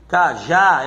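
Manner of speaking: slow "cajá" with a firm final JÁ; ca-JÁ, punching the last syllable; stress on JÁ. Shown as a demonstration. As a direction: show the strong ending of "cajá". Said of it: "é o já".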